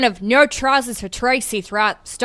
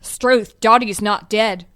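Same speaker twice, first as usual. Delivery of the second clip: put-on Australian accent; slower than usual. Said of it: "an Australian accent".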